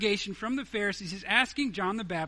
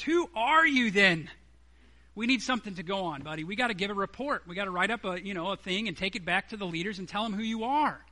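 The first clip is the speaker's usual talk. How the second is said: mock exasperation. Preacher voicing leaders who need an answer from John, exasperated. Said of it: "they're just dying on the inside".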